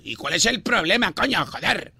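mock-indignant Castilian Spanish; Spain accent. Prankster challenging the caller, put-on Spain accent. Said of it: "Carlos Enrique Banderas es de Perú".

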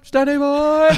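high cartoon voice, strongly shifted; South Park cartoon voice. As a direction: squeak it like a cartoon kid.

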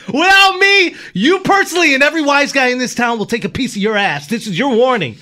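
heated, high-pitched warning; threatening mobster. Acted. Host as mobster warning an associate, threatening. Acted threat from mob film.

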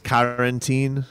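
put-on "quarantine" said the player's way, like "kah-ran-teen"; player's pronunciation. Host mimicking the player, accented "quarantine". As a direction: lightly copy the player's "quarantine". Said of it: "I love the way he says".

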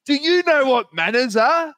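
high, loud sing-song mimicry; mocking her line. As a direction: throw her own line back at her mockingly. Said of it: "doubled down with".

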